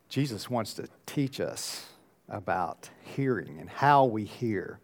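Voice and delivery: normal talking voice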